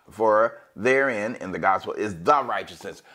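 For therein drawn out slowly; slow quoting. Shown as a demonstration. Preacher rereading the verse slowly to show "the". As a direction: read the verse slowly to point out the word. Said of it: "this word, this is a, a very small word".

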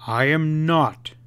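slow, firm, every word weighted; with emphasis. A narrator's reading. North flatly denying knowing the friends, emphatic. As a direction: plant each word slowly. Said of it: "replied the other with emphasis".

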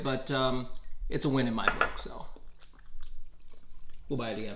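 speaking around a bite; talking while chewing. Real, not acted. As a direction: mouth partly full of food. Seen 2: Man takes a bite off his fork mid-phrase, then keeps chewing.

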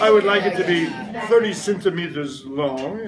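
lightly put-on French accent ordering food; playful customer in mock French. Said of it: "you will ask".

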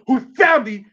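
sermon shout; preaching shout. Real, not acted. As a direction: lift it like a pulpit climax. Preacher builds to climax.

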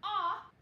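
"ah" said short and loud as the short O; short o sound. Shown as a demonstration. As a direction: punch out a short "ah". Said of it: "the O is saying its short sound".

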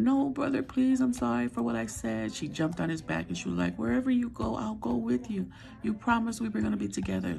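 a hint of a crying girl pleading with her brother; pleading sister. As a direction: beg him not to leave, a mild mock cry. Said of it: "she threw a fit and was crying".

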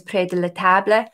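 a bad French accent, not far from her own voice; French put on clumsily; lightly French "près de la table"; terrible French accent. Shown as a demonstration. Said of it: "That's a terrible French accent".

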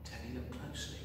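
plain reading voice

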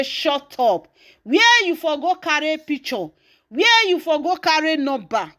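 imitating an indignant scold; acted scolding. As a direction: act out an accusing challenge. Voices priceless hair scolding Judy Austin.

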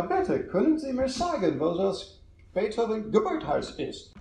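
imitating the mother's hard-worked German; high-pitched start, imitated practised German; laboured German. Mother asking a passer-by for directions, laboured German. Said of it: "decides to use her hard work German".

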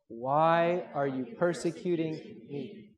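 slow, drawn-out unison reading; group recitation. Shown as a demonstration. Preacher leads the congregation in saying it together, slow recitation. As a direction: say it slowly so everyone can join in. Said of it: "Let's just say that together".

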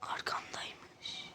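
scared whisper, slow; hushed fright at a monster behind; being chased. Real, not acted.

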